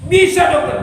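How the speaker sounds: high, eager question; eager hope. Acted. Patient hearing a cure is possible, hopeful. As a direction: leap up at the offered cure.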